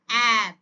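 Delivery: "অ্যাব" said loud and low as one word; blended word. Shown as a demonstration. Teacher demonstrates the blended word "অ্যাব". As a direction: blend "অ্যাব" together smoothly. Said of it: "একসঙ্গে sound গুলোকে কি করব, উচ্চারণ করব".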